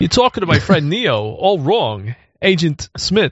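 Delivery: deadpan delivery with sudden odd inflections and lurching emphasis. Showing off a favorite bit, Walken in The Matrix: Christopher Walken impression. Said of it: "So you do it good".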